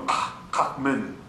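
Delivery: Kahman slowly, from the throat; throat vibration. Shown as a demonstration. Teacher demonstrating vibration, throaty Kahman. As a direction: push Kahman from the diaphragm, first syllable repeated. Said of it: "That's a vibration".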